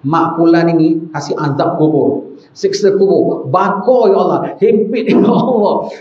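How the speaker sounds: hammed-up prayer for punishment, ending in a laugh; mock curse prayer. Friend teasing a rival with a mock curse on his mother. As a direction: pray mockingly for torment, laughing at the end. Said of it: "Mak kau dah meninggal apa doa?".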